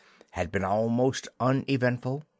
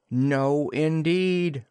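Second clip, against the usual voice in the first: firm refusal; 5 semitones higher, 4 dB louder, much slower than usual. Acted. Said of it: "replied the twins".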